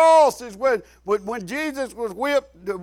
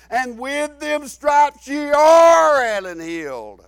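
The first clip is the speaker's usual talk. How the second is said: measured, stretched phrases building to a shout, then dropping; fervent preaching. Acted. Preaches Christ's words to climax.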